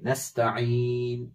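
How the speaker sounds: नस्तईन ending in a stopped, silent नून; stop with jazm. Shown as a demonstration. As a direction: say नस्तईन with the final नून held still. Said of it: "बल्कि यहां जज्म की आवाज आएगी". (नस्तईन जज़्म के साथ)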